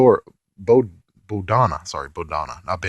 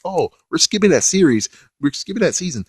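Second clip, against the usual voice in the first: mocking producers; 7 semitones higher, 4 dB louder than usual.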